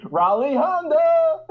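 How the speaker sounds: slow, high hick salesman cry; car dealer ad voice. Pretend. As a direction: drawl the dealer name like an ad. Mock dealer voice again.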